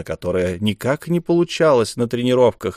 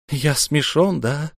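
hopeless; 5 semitones higher, slower than usual. Acted. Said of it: "спросил Ра безнадёжно".

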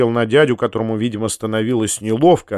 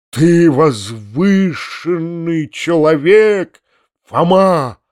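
slow, loud exclamation; crying out; 4 semitones higher, 3 dB louder, much slower than usual. A narrator's reading. Uncle coming to his senses, exclaiming to Foma. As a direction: burst out in awe. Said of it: "вскричал".

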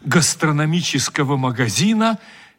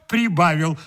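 usual speaking voice

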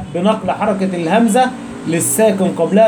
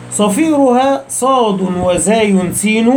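slow, measured recitation of a poem line; slow verse recital; much slower than usual. Shown as a demonstration. Teacher reciting a line of the poem to students, slow and measured. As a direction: recite the verse slowly, each word drawn out.

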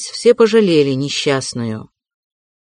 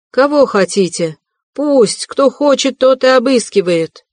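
высокий надрывный крик, с вызовом; бросает крик всем в лицо; 7 semitones higher than usual. A narrator's reading. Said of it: "кричала Катерина Ивановна". (Катерина Ивановна в ярости кричит на Лужина)

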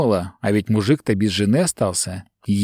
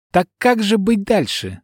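demanding; 8 semitones higher than usual. A narrator's reading. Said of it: "требовательно спросила я".

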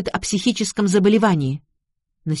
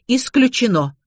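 indignant denial; 5 semitones higher than usual. A narrator's reading. Mother flatly rejects the affair.

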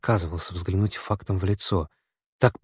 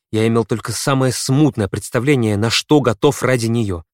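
ordinary delivery, nothing marked

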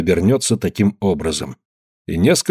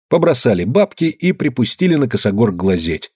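plain reading voice

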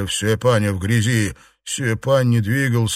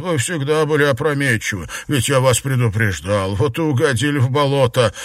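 teasing mockery; 2 semitones higher, faster than usual. Jiarong teases muddy Xuepan.

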